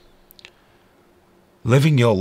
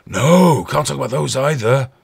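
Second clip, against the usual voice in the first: higher, exaggerated refusal; hammed-up shocked protest; mock scandalised; 4 semitones higher than usual. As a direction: object in feigned horror. Mimics shocked objectors.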